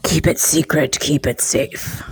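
slow hushed wizard line; lightly voiced wise wizard; Gandalf quote. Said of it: "It's just like Harry Potter".

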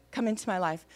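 understated echo, falling at the end; repeating a prayer. Retold or imitated. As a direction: repeat it modestly after the leader. Patient repeats the prayer line.

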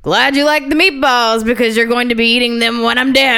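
hammed-up mad villain line; lightly voiced gleeful maniac; maniacal all-caps read. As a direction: read it big, building to a mock cackle. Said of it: "read the last part in all caps with a cackling, maniacal laugh".

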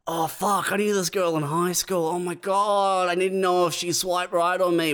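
lightly voiced guy squealing over an old crush; excited Tinder guy.

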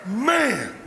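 breathless high laughter; preacher cracking himself up; high cackling laugh. Real, not acted. Preacher cracks up at own joke.

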